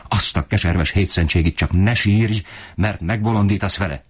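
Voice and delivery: a read anger, not a full yell; furious father. Acted. Husband rages at his weeping wife, understated fury. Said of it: "ordított fel rettenetesen".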